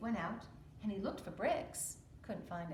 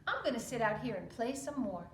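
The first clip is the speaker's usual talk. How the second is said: littlest pig; 3 dB louder than usual. Acted. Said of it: "said the littlest pig".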